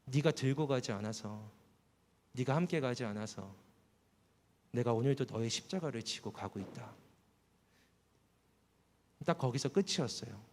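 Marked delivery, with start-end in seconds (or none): 0.0-6.9 a hint of a gentle Jesus, lower and softer; Jesus answering. Jesus turning to answer the tired believer, lightly voiced and soft. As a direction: answer him quietly as Jesus would. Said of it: "예수님께서 고개를 돌려서 저한테 대답하셨어요".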